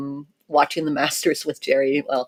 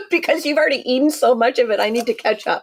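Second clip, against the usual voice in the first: laughing; 6 semitones higher, faster than usual. Real, not acted. Teasing about eating chocolate.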